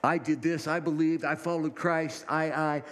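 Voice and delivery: puffed-up voice of a self-made believer; mock self-righteous believer. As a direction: brag about your own works. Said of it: "this idea of".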